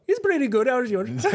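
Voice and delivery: imitating caller. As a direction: answer back brightly as the caller. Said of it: "He's all".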